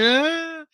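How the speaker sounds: high-pitched imitated wail; mock crying. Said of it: "I just kept crying".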